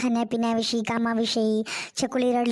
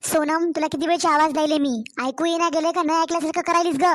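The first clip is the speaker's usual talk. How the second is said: scolding; 3 semitones higher than usual. Acted. Mother-in-law berates her daughter-in-law for not answering, fast scold. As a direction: tell her off for ignoring your calls.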